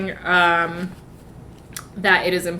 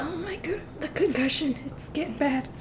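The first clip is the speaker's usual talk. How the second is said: high, breathless whisper; mock worried whisper; 9 semitones higher, 6 dB quieter than usual. The speaker fretting to himself about his concussion. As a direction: fret about it in a hushed voice.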